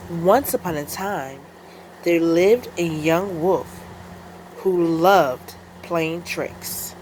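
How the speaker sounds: measured storybook read-aloud with pauses between phrases; story narration. A narrator's reading. The speaker reads a picture book aloud, storytelling voice. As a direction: read it out to children, drawing out phrase endings.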